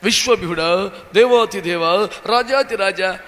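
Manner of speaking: a hint of a pompous prayer voice; showy prayer words. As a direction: lightly intone the lofty titles. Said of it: "పదాలు మాత్రం". (కొంచెం ఆడంబరంగా ప్రార్థన పదాలు)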